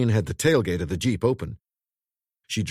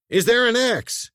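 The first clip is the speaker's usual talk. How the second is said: high, loud urgent question; shouted; 13 semitones higher, 5 dB louder than usual. A narrator's reading. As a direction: shout to her. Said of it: "and he shouted".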